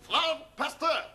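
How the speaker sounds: emphatic, slow mock-German greeting; German accent. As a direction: announce yourself in a hammed-up German accent. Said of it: "give him a German accent".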